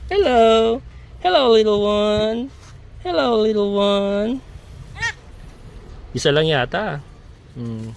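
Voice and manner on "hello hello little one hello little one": put-on high, slow coo to a baby; sweet baby talk. Greeting the newborn kid.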